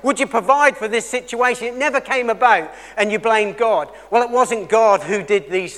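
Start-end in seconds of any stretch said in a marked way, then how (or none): 0.0-1.7 higher, louder mock petition; raised-voice imitation of praying; imitated prayer. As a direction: call out a pleading prayer on someone's behalf. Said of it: "You may have prayed".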